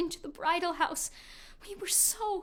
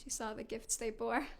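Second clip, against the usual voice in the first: hushed, breathy storytelling whisper; 8 semitones lower, 12 dB quieter than usual. Acted. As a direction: whisper it as a secret. Hushed moment in the tale.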